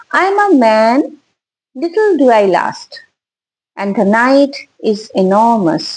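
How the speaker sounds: slow, measured poetry reading; poem recitation. Real, not acted. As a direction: read the poem line by line, with long pauses. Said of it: "পড়ে শোনাচ্ছি একটা কবিতা". (ধীরে, থেমে থেমে কবিতা আবৃত্তি)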